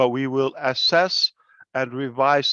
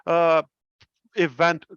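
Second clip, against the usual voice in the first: higher, quick, gushing compliment; mock gushing praise; 4 semitones higher than usual. Mimicking someone who praises a presentation, gushing. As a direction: parrot an empty compliment in a higher voice. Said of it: "So when somebody tell you".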